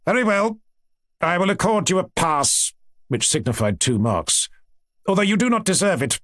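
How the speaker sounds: lightly voiced lecturing teacher; grudging professor. Professor granting the student a pass, mildly condescending.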